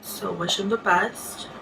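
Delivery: teary wish to the ex; holding back tears. Real, not acted. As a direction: say it through tears. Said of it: "Trying not to cry".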